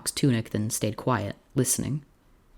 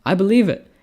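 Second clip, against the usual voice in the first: laughing doctor; 9 semitones higher, 9 dB louder than usual. A narrator's reading. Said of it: "The doctor laughed".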